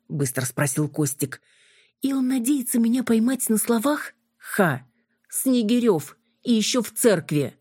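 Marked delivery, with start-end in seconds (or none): 2.0-7.6 mocking scorn. Юля насмехается над Костиком.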